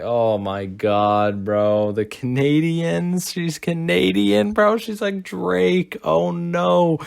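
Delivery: high, slow mock disbelief, voice shifted up; hammed-up shock at a Canadian; mock dismay. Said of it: "I'm like".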